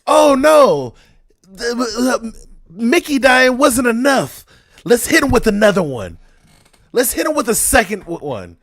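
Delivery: mock the writers with a bitter yell; angry sarcasm. Real, not acted. Viewer ranting at the writers, loud sarcastic shout.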